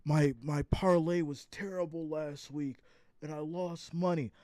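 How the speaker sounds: lightly voiced complaining bettor; a hint of a sulky fan; mildly mimicked losing gambler; mock whiny viewer. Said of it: "Some of you will hit me up like".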